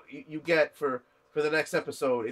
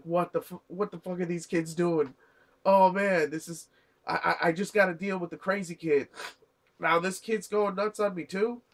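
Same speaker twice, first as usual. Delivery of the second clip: slightly raised, agitated retelling; mock freaking out; 4 semitones higher than usual. Retelling Samon's reaction to these crazy kids, mildly freaking out. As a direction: imitate someone mildly freaking out. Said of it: "is freaking out".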